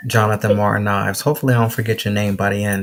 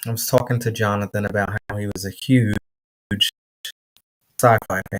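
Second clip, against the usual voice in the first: quick recap; 3 dB quieter, faster than usual. Real, not acted. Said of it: "Making me say this over and over again".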